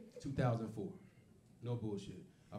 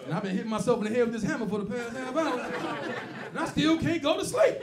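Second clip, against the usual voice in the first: sleepless racist; 6 semitones higher, 5 dB louder than usual. Acted. Racist white folks who can't sleep.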